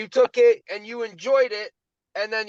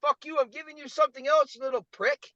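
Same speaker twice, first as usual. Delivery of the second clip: mock whiny outrage; 5 semitones higher than usual. Acted quarrel with the universe.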